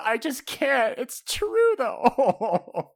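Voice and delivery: mock crying wail, very high and loud; Nami. Nami crying that she just can't lie, mock wail. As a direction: imitate a hammed-up tearful protest. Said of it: "she's, like, crying, going, like".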